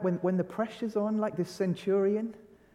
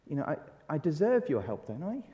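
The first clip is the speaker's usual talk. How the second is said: entitled pleading; 2 semitones higher, 3 dB quieter than usual. Retold or imitated. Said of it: "we kind of think".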